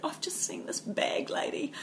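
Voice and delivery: retold hushed words. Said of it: "And she said".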